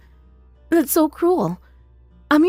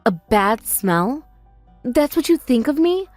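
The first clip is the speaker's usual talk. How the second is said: hurt disbelief; slower than usual. Acted. Sister hurt by insult.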